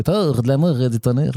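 hammy attempt at a Quebec accent; badly faked Quebec French. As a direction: read the title like a Québécois. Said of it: "Amour et Tonnerre au Québec, très certainement".

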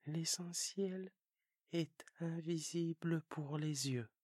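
prince's own voice, stress on "invisible"; child prince echoing the fox; the little prince repeating. Acted. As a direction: repeat it to remember, leaning on "invisible".

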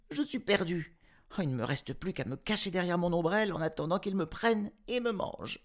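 put-on very high, fast panicked child; little girl cowering from the eagle; terrified girl. A narrator's reading. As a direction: blurt it out in terror.

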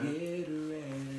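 drawn-out teasing warning; ominous warning. Acted. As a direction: stretch it out like a playful threat. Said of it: "repeat of the warning".

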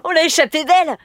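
high, giggly relieved exclamation; gleeful boyish relief; laughing with relief. A narrator's reading. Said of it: "rigola Clément".

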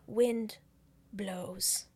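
weak, halting words with breath fading; barely conscious, words far apart; half-dead. Retold or imitated. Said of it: "crying, passed out, half dead".

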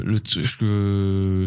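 slow, losing the thread; trailing off. Real, not acted. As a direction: drift off mid-thought. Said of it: "je sais plus ce que je voulais dire".

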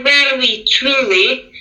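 "truly" given deliberate emphasis; emphasize "truly" after "rarely"; stress on TRULY. Real, not acted. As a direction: lean on the word "truly". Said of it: "I want to emphasize the word truly".

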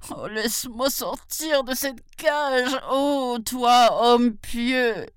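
high pleading tiger cry; the trapped tiger begs, calling up high; a caged tiger calls out to a passing brahman, high and pleading. Acted. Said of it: "cria-t-il".

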